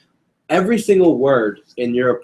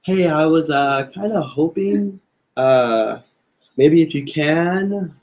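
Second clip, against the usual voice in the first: hesitant; slower than usual. Shown as a demonstration. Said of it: "Sound like that, or".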